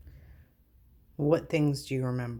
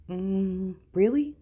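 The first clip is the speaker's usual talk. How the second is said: high, loud incredulous really; stunned disbelief; 6 semitones higher, 5 dB louder, slower than usual. Real, not acted. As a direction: shoot up in shock at the news. Stunned by a surprising fact.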